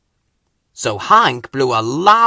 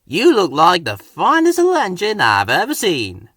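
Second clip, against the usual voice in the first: Hank voice; 5 semitones higher, 4 dB louder than usual. Acted. Hank flatters Thomas.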